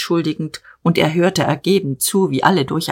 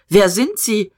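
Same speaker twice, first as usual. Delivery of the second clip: barked question; 4 semitones higher than usual. Acted. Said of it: "Diederich herrschte ihn an".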